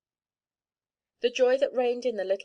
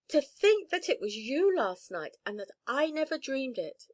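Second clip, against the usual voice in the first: mild exclamation; 5 semitones higher than usual. Acted. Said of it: "exclaimed Theodora".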